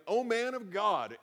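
sneering captain's greeting to the prophet; sarcastic. Retold or imitated. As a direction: say it slowly, faking respect you don't feel. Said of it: "probably being sarcastic with that".

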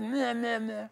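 soft mocking meh meh meh; a quiet mimicked whine; preacher parodies the Israelites' complaining; mock whining. Mocking the griping crowd.

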